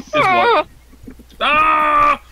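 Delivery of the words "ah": sudden high loud yelp; a startled cry; startled shout. Real, not acted. Startled at camera.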